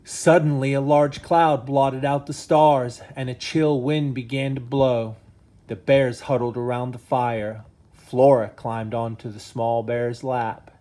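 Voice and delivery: lively bedtime-story reading voice; reading to children. Acted. Dad reading a bedtime story to his sons, animated. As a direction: read it like a storybook for the boys.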